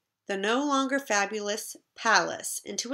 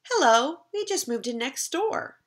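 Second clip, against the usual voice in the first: higher, brighter greeting; friendly neighbor; 4 semitones higher than usual. Acted. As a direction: greet cheerfully like a new neighbor. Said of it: "said the woman".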